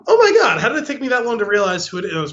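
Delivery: high laughing oh my God at first, then settling; a laughing gasp of recognition; laughing disbelief. Retold or imitated. Sharing his shock at the actor with a laughing high cry. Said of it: "I was like".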